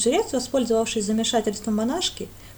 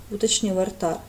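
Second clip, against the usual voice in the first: usual speaking voice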